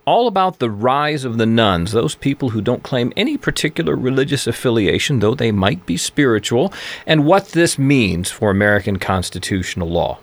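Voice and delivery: upbeat announcer read into the break; on-air host voice; radio host intro. Acted. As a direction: present the show like a radio host.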